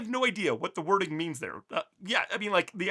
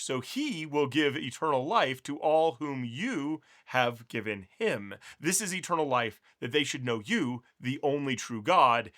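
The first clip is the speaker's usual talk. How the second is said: slow, reverent Bible reading; scripture reading. Acted. Teacher reads Jesus's prayer to the Father to viewers, slow and reverent. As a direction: read the prayer slowly and reverently.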